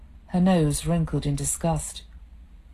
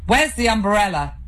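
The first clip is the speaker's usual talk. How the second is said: louder, irritated snap; cursing; 4 semitones higher, 5 dB louder than usual. Acted. Husband cursing in the hallway, irritated. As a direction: bark it out, fed up. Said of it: "he cursed".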